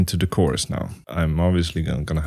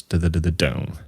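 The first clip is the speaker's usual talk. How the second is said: vocal accents. Shown as a demonstration. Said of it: "accent notes on these notes".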